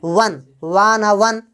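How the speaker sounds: वन slowly broken into "wa" and "na"; slow teacher's breakdown of वन; sounding out. Shown as a demonstration. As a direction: spell वन by its Hindi sounds, drawn out. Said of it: "इसका हिंदी में उच्चारण करेंगे".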